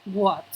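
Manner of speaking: WHAT repeated alone, deliberately; an isolated WHAT with falling tune; model pronunciation. Shown as a demonstration. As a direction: say WHAT carefully for learners to hear. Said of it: "Listen again".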